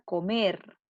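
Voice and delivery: "comer" with MER stretched out; stress on final syllable. Shown as a demonstration. Teacher showing pupils an aguda word, "comer" stressed on MER. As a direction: lean slowly on the last syllable of "comer". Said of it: "lleva la sílaba tónica".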